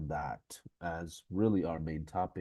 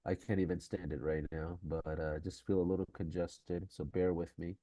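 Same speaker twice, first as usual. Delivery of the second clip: nasal voice; 3 dB quieter than usual. Real, not acted. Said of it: "I'm so sorry about my nasally voice".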